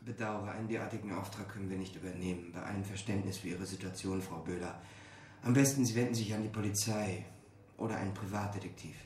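muffled, far off behind a wall; from the next room. Acted. Boss refuses the elderly couple next door, muffled and distant. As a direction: overheard through the office door.

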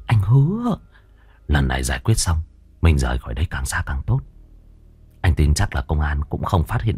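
lightly voiced low male crook, coaxing; reassuring gangster lover. Killer calming his lover on the getaway ride, reassuring.

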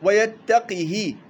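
ويتقه spelled out slowly with the qaf clear; slow recitation demo. Shown as a demonstration. Teacher modelling a variant reading for students, slow and careful. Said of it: "وأسكن الهاء".

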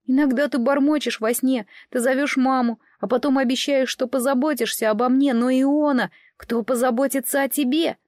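put-on young brother blurting out his hurt; lightly voiced boy. Child Day worries for sister. (слегка детский голос, с обидой)

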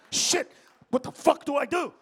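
high, loud mock panic; acted panic. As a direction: fluster it loudly for laughs. Acting out a panicked onlooker.

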